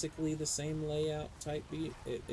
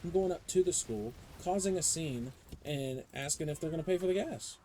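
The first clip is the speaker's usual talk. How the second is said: louder, higher, worked-up rant; heated rant; 5 semitones higher, 3 dB louder than usual. Real, not acted. Vowing to confront the school over the bus: rising angry rant. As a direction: build up to an indignant shout.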